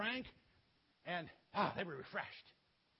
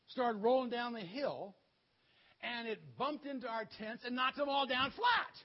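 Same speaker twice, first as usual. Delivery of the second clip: louder, higher-pitched build to a shout; excited dream retelling; 3 semitones higher, 5 dB louder than usual. Acted. Soldier tells his friend a crazy dream, excited. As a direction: act out an amazed soldier, punching the ending.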